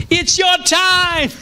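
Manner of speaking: put-on drawn-out, high-pitched Hispanic-accented shout. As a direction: imitate a revival preacher's cry in a rough Hispanic accent. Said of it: "Hispanic accent".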